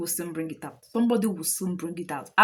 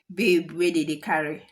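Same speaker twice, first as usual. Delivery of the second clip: Nigerian accent; 3 semitones lower than usual. Shown as a demonstration. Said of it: "that's my Nigerian accent".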